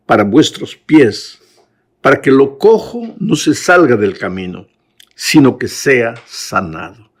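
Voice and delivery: slow, weighty reading of the verses; solemn scripture reading. Acted. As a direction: read each phrase slowly, as holy words. Reads the Bible passage aloud. (lectura solemne y pausada de la Escritura)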